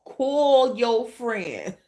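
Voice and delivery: put-on high, teasing girl-what-you-mad-about voice; sassy self-talk. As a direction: scold yourself playfully like a sassy friend. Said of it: "my logic was like".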